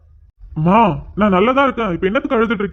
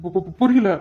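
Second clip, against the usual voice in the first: flustered stammer; 3 semitones lower, slower than usual. Acted. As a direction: stutter on the first syllable, thrown off. Son flustered by mother's revelation.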